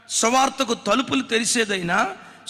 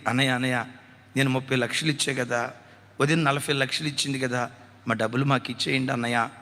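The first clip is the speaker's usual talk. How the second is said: lightly voiced pleading sister; 9 semitones lower, 3 dB quieter, faster than usual.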